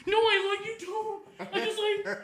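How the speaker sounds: put-on the boy yelling back defensively; shouting back. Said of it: "screaming at each other".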